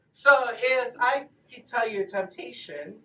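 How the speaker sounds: ordinary talk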